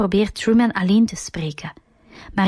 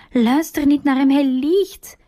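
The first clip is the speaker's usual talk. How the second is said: higher, pleading shout; a desperate shout, higher; 6 semitones higher than usual. A narrator's reading. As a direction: shout the warning at Truman. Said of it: "schreeuwt Sylvia".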